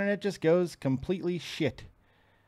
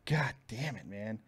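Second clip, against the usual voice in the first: whispered, fed-up swearing; whispered curse; 6 semitones lower, 12 dB quieter, slower than usual. Real, not acted. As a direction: curse under your breath. Cursing at dropped connection.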